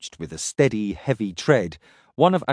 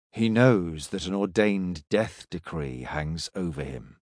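stern warrior; 7 semitones lower, 6 dB quieter than usual. Acted. Akreen's voice, cold and stern.

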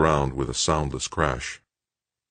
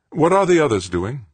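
tense commander; 11 semitones higher, 5 dB louder than usual. A narrator's reading. Brenard asking, tense landing.

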